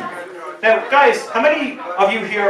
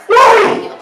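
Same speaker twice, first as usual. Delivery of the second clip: incredulous why; 7 dB louder than usual. Retold or imitated. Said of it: "patient incredulous".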